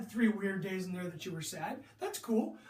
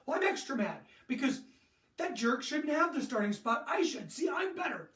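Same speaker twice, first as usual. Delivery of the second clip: a touch of a sulky, indignant athlete; imitating a player angry over the starting spot; mock resentful player; 5 semitones higher than usual. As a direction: lightly play the benched player who feels cheated. Acting out a jealous player.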